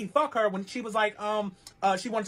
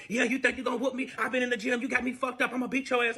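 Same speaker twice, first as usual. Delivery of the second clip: mock threatening; 6 semitones higher than usual. Boyfriend's threat acted out mid-fight.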